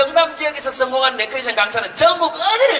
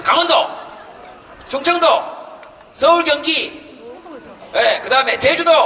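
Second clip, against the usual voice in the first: calling out; 5 semitones higher than usual. Real, not acted. Calling out regions to crowd.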